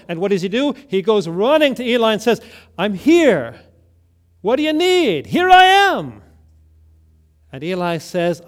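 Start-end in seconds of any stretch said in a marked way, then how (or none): 2.8-6.2 put-on eager boy. Boy runs eagerly to Eli.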